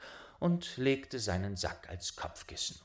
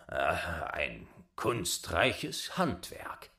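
slow, low voice of the father; lightly voiced old father; 3 semitones lower, much slower than usual. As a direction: drawl it like an old man.

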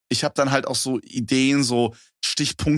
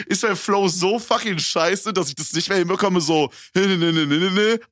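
verzweifelter innerer Monolog; 5 semitones higher than usual. Retold or imitated. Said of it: "ich dachte so".

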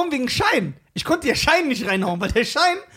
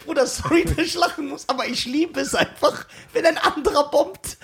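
mock apology through giggles; half-laughed, insincere sorry; imitated laughing apology. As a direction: imitate someone failing to hold in laughter. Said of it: "Dann lacht".

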